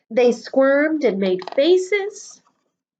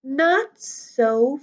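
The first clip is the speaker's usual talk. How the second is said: slow, menacing witchy teacher hiss; a slow stern hiss from the new teacher; unpleasant hiss; much slower than usual. Acted. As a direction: drag it out to freeze the class. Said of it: "hissed an unpleasant voice".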